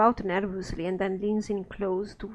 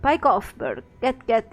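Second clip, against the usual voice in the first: put-on louder, furious grunt of a filthy old man; angry snarl; 6 dB louder than usual. Quint shouting at Burke to get off his claim, furious. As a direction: bark him off his claim. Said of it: "His face turns bright red".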